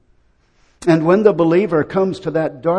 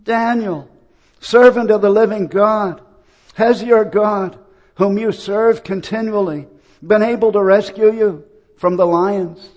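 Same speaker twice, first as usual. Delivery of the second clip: high, louder agonized call; 5 semitones higher, 4 dB louder than usual. Acted. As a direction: cry out in anguish to someone you fear is lost. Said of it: "in an agonized voice".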